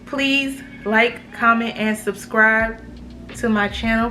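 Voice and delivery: slight lisp from braces; careful over the lisp; talking with braces. Real, not acted. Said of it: "these braces make me talk with a lisp".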